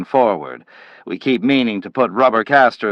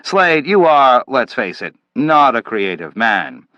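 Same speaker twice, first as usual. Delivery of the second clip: louder, higher contemptuous lecture; scornful scolding; 4 semitones higher, 3 dB louder than usual. Acted. Manville berating Slade for being passive, loud and scornful. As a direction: jab each question at him.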